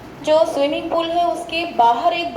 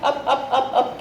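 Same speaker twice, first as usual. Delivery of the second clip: fast repetition. Shown as a demonstration. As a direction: rattle off up up up quickly. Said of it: "इसको आपको fast बोलना है". (तेज़ी से दोहराते हुए)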